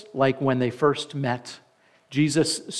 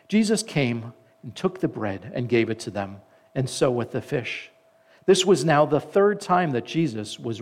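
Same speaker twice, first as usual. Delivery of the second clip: scripture reading. A narrator's reading. Reads scripture aloud to congregation.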